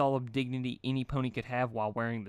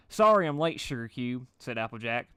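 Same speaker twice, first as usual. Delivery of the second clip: exhausted; 8 dB louder than usual. A narrator's reading. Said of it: "tired to the point of intoxication".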